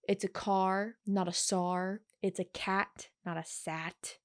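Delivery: car with a K sound, sar with an S; cat said with a K, sat with an S; hard c demo. Shown as a demonstration. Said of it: "The C A implies a K".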